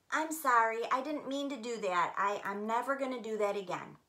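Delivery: gentle apology. Shown as a demonstration. Child apologizing to a brother, gentle and sincere. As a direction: say sorry like you mean it. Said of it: "Listen to these two ways".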